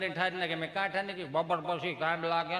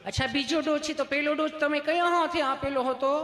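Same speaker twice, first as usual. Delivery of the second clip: higher, sweet-sounding nurse asking gently; 8 semitones higher than usual. Retold or imitated. Teller voicing the nurse, higher and sweet. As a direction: play the nurse, pitched up and polite.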